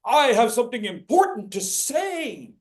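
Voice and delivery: mock timid speaker. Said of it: "audience going".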